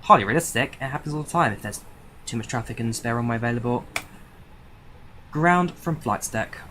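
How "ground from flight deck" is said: slow, deliberate pilot call to ground; pilot radio call. Acted. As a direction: spell it out slowly like a captain. Pilot calling ground crew.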